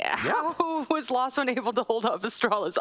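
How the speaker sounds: asking through a laugh; a laugh breaking the question. Real, not acted. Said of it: "I can't stop laughing here".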